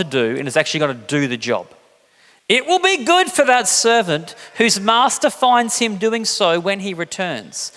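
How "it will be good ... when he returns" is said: slow, measured words with a veiled threat; slight warning. Acted. Jesus warns servants about the master's return, veiled warning. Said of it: "a slightly dangerous warning in Jesus' voice".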